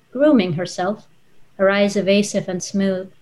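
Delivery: measured literary reading voice, unhurried with pauses; story narration. A narrator's reading. Author reading her novel aloud to the audience, storytelling narration. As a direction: read it like a storyteller, letting each image land.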